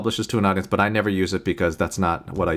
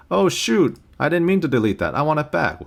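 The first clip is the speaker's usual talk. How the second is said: mock dismay; 6 semitones higher than usual. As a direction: play a student who just deleted the wrong clip. Voicing a student's mistake.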